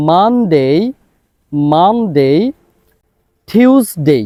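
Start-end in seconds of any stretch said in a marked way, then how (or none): 0.1-2.3 মানডে with a clear M at the start; clear M sound. Shown as a demonstration. Teacher stressing M in মানডে for students. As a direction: lean on the M of মানডে. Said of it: "এম সাউন্ডটা খেয়াল করতে হবে".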